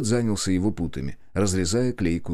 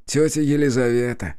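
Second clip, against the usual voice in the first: fond, higher-pitched cousin voice; warm; 6 semitones higher, 4 dB louder than usual. A narrator's reading. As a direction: confirm it with affection, pitched up. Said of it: "с теплотой подтвердил Святослав".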